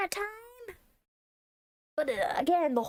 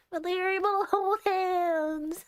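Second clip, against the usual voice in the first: touched cooing; 6 semitones higher than usual. Real, not acted. Player moved by couple holding hands, high cooing. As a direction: coo over the sweet couple.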